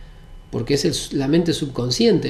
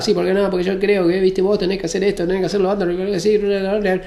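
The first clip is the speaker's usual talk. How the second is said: fast, higher-pitched, pushy rambling rant; desesperado; 5 semitones higher, faster than usual. Shown as a demonstration. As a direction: rattle it out frantically, running into gibberish. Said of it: "dejo de hablar desesperado". (habla desesperada, atropellada y aguda)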